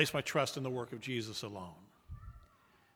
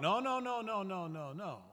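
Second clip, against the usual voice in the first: emphatic no; 4 semitones higher, 4 dB quieter than usual. Real, not acted. Rejects the idea, fading.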